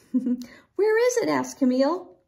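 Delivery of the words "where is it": high, drawn-out excited asking; eager question. A narrator's reading. Camille searches for the robin, eager. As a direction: ask eagerly, pitched up and stretched.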